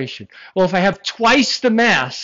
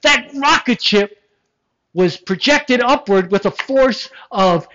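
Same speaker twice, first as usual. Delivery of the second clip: mock announcer; 5 semitones higher, 3 dB louder than usual. Mock announcer reading long unit.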